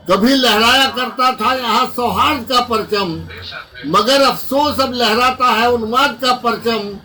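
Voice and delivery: rhythmic, emphatic mushaira declamation; poem recitation. Acted. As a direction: declaim the verse to a hall, line by line. Recites patriotic lament poem.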